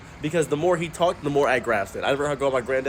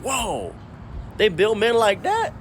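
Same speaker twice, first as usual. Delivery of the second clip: a grandpa stunned by what he sees; amazed granddad; 8 semitones higher, slower than usual. Retold or imitated. Granddad amazed by femboy video.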